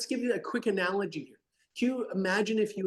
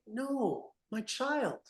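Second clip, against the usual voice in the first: gentle parent; 6 semitones higher than usual. Acted. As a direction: coax the child back outside tenderly. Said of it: "Would you not be like".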